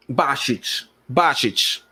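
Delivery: Bacic said slowly as bat-chich; careful pronunciation. Shown as a demonstration. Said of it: "si pronuncia?".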